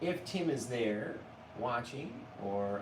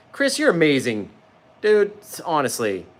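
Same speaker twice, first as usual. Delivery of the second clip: gushing thanks; 4 semitones higher, 15 dB louder than usual. Real, not acted. Thanking a viewer in chat.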